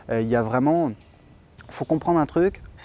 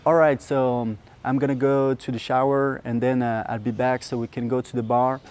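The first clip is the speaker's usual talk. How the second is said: attempted English accent. Shown as a demonstration. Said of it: "je vais le tenter pour vous".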